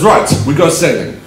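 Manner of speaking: imitated French accent. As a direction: announce it as a French host. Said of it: "with more of a French accent".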